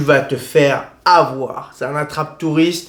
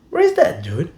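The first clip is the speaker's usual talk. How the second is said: puzzled American; 3 semitones higher than usual. Retold or imitated. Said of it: "Et le mec me sort".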